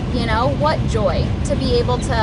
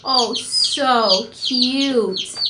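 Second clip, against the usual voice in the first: drawn-out coo; much slower than usual. Real, not acted. Cooing at a chick.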